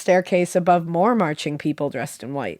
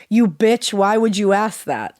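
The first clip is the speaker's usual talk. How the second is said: retold yelling; 3 semitones higher, 4 dB louder than usual. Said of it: "the woman began yelling".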